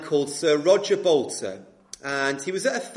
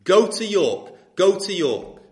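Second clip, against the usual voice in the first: louder, insistent repeat; haunting voice; 2 semitones higher, 5 dB louder, slower than usual. Acted. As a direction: voice in his head at breakfast, loud and insistent. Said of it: "could not get that voice out of his head".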